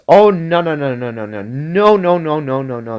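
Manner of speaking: high, rapid-fire string of no's; mock panic, protesting in one long rising run; alarmed protest. Telling a tongue thief to stop, alarmed protest. Objecting to tongue being stolen.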